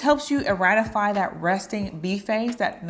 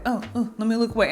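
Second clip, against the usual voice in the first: flustered; faster than usual. Pretend.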